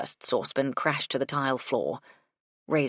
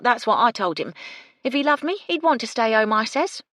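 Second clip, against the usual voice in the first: loud, higher, gossipy cockney maid; brash cockney maid; 6 semitones higher, 6 dB louder than usual. A narrator's reading. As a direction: complain like a sharp-tongued kitchen maid.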